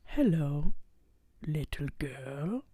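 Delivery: slow villain greeting, building to a high, drawn-out outburst; the Grinch. Acted. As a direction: draw it out like a theatrical villain confronting an intruder. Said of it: "this is where we get the monologue".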